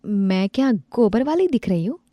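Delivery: lightly voiced rude neighbor woman; sneering neighbor. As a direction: order her about with contempt. Neighbor insults her.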